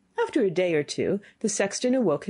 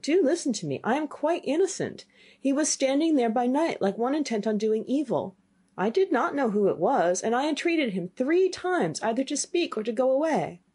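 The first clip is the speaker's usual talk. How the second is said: higher, earnest protest of innocence; pleading boy, lightly voiced; 6 semitones higher than usual. Boy to his angry father, lightly voiced earnest plea. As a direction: plead that you meant no harm.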